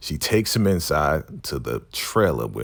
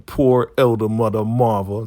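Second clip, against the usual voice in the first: mock pity; 4 semitones higher, 4 dB louder than usual. Mock pity for crying woman.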